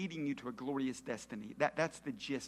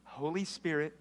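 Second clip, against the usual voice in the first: prayer line led. Shown as a demonstration. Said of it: "Say this prayer out loud".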